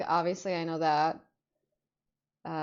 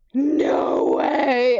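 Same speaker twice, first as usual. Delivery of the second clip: loud, higher cry of amazement; disbelieving exclamation; 5 semitones higher, 10 dB louder than usual. Retold or imitated. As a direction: reenact stunned excitement at full volume. Retold shock at phone ringing.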